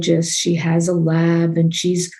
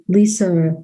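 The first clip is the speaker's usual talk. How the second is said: "Lisa" in the speaker's own New York accent. Real, not acted. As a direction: let New York slip into the name "Lisa". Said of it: "trying to get my New York accent".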